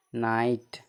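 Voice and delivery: "नाइट" with a long "ai" straight into t; silent GH. Shown as a demonstration. Teacher answers own spelling question, "नाइट" with GH silent. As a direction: say "नाइट" without any g sound. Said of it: "जीएच का उच्चारण नहीं होता है".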